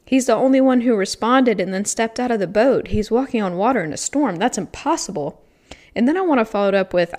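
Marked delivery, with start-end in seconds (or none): 0.0-5.4 incredulous inner voice. Retold or imitated. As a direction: protest like your skeptical mind. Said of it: "my logical brain says".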